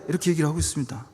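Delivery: ordinary talk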